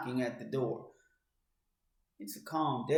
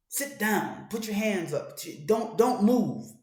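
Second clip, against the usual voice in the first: higher, forceful commands, last one slow and louder; barked orders; 4 semitones higher, 4 dB louder, slower than usual. Acted. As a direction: bark it like an armed man ordering you down. Intruders order homeowner at gunpoint.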